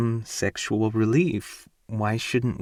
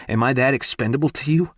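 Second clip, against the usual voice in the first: fast, higher, voice breaking; voice cracking; 4 semitones higher, faster than usual. Acted. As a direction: let the voice crack on the question. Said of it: "Fuck if my voice doesn't crack".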